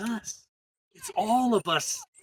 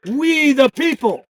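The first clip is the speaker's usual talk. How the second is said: loud, higher, slowed call line; yelled call; 6 semitones higher, 10 dB louder, slower than usual. Shown as a demonstration. Organizer calling out for the crowd to answer, yelling. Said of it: "I'm gonna yell".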